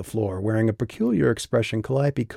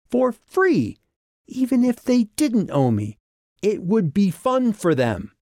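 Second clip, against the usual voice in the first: put-on angry young woman; 6 semitones higher, 3 dB louder than usual. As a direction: lay out the threat with barely held anger. Calliope's angry tirade, higher, slow.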